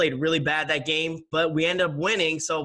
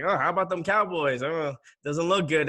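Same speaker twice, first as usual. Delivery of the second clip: teasing taunt; 3 semitones higher than usual. Retold or imitated. Imitates himself needling Cowboys fans.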